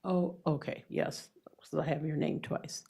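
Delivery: stuffy, blocked-nose voice; congested voice. Real, not acted. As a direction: speak through a congested nose. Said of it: "apologize for my voice. I'm just congested".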